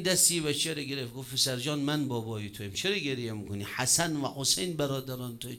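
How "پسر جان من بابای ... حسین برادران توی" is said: lightly voiced fatherly comfort, lower and softer; gentle consoling. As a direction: soothe a crying child, retold quietly. Imam consoles a crying orphan. (دلداری آرام و پدرانه)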